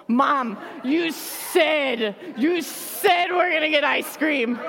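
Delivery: a hint of a child's mock shout; kids' insistent claim. Kids reminding mom of ice cream, mildly mock shouting. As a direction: demand it like a sworn promise. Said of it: "they take it like a blood oath".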